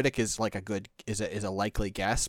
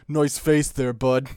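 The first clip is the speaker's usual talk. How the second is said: put-on British accent; 4 dB louder, slower than usual. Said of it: "like, a British accent".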